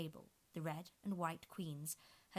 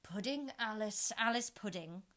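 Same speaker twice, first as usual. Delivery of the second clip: grudging introduction; sulky growl; 4 semitones higher, 7 dB louder than usual. A narrator's reading. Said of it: "looked sulky and growled".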